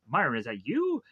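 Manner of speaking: mild mock disbelief, swooping up at the end; incredulous question with a big final rise; retold shock. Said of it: "Howard that's in shock".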